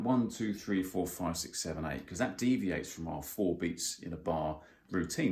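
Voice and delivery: counting straight up to eight, the way not to do it; wrong flat count to eight. Shown as a demonstration. Teacher shows the wrong way to count, plainly. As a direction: count one to eight without grouping in fours. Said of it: "You don't want to count".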